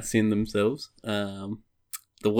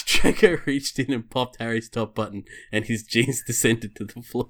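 measured storybook reading voice; story narration. Acted. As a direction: read it out like a storybook. Reads erotic fan fiction aloud.

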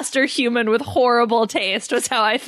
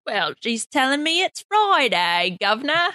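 mock Cockney accent; 2 semitones higher than usual. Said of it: "doing our Night Angel impressions".

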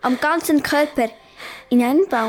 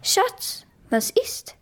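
soft whispered mum's question; mama asking; 7 semitones higher, 4 dB quieter, slower than usual. Acted. Mother gently asks her scared child in cupboard, whispered. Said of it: "fragte meine Mama".

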